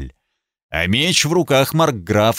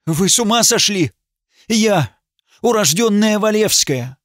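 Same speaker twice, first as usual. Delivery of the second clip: high, sharp outraged protest; indignant outcry; 8 semitones higher than usual. Acted. Noble lady outraged at the judge's accusation. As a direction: fling it at him much higher, scandalized. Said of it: "Она вскрикнула".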